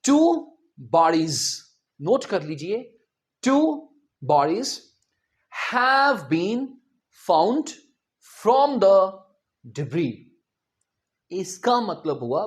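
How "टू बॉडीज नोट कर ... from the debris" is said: clear, word by word; slow example sentence. Shown as a demonstration. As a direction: read it out slowly for dictation. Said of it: "इसका sentence देखें". (धीरे-धीरे बोला गया उदाहरण वाक्य)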